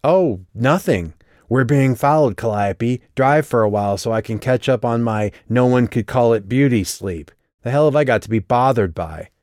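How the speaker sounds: exasperated driver mocking her sleepy passenger; sarcastic anger. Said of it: "equal parts astonishment and anger".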